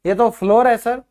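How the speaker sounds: a pupil sure of the wrong answer; lightly voiced student; imitating a student. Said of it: "आप कहोगे".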